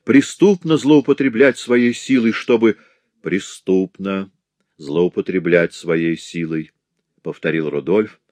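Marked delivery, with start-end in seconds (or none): 0.0-2.8 loud high protest; raised outraged voice; outcry. Acted. Blind man pleads. 3.2-6.7 slow, weighty repetition; grave slow echo; solemn. Acted. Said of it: "голос которого прозвучал торжественно".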